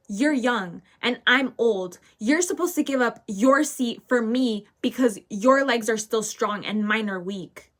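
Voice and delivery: hammed-up demand for the seat; mock yell. Old lady demands the child's seat, mild mock yell. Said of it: "she starts screaming at me".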